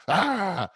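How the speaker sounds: high, quick "ah"; mock worked-up cry; emotional outburst. Acting out someone too emotional to think, worked-up cry. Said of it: "when you're in your emotional, you're all".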